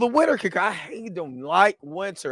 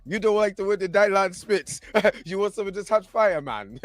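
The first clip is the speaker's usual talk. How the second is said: playful phony Jamaican boast; fake Jamaican accent; 4 semitones higher than usual. Joker selling his hot fire, fake Jamaican accent. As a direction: brag in a put-on Jamaican accent. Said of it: "baloney Jamaican accent".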